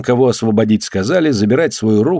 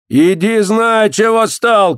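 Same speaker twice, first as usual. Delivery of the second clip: high, sharp command; acted official's shout; shouted order; 10 semitones higher, 3 dB louder, slower than usual. A narrator's reading. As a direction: chase him off with a raised voice. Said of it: "крикнул подьячий".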